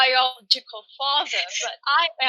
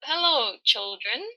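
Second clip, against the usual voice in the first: solemn father voice. Acted. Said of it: "please introduce yourself".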